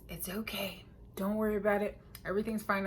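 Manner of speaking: imitating grandma calming things down, hushed; soft reassurance. Grandma reassures the upset parent.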